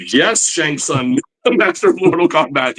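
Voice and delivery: mock awe. Awed fan answering his idol.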